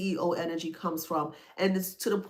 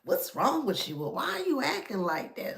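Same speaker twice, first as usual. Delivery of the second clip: disgusted; 2 semitones higher, 4 dB quieter than usual. Retold or imitated. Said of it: "They're like".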